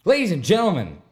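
high, loud hype call; fighting game announcer. Pretend. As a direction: boom it out like a fight intro. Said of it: "my announcer voice".

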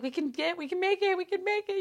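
mock panicked pep talk; frantic self-pep. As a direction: talk yourself through the rush. Self-talk hurrying to the call.

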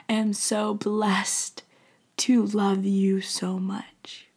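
a loving God's whisper; slow tender whisper. Acted. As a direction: linger on every word lovingly. God's tender words slowed.

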